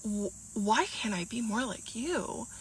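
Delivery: hesitant, softly spoken retold question; stunned echo. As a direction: stumble softly into the question, acting taken aback. Stunned, echoes his question back.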